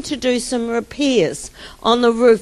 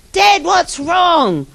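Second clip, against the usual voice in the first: higher, slow call to dad; a hint of a concerned kid, pitched up; lightly voiced child; 6 semitones higher, 4 dB louder, slower than usual. Child finds his dad praying, lightly voiced concern.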